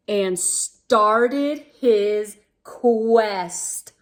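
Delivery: put-on lively read-aloud for young kids; storybook reading. A narrator's reading. Reading a picture book to boys and girls, lively storybook voice. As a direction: paint the adventure for the little ones.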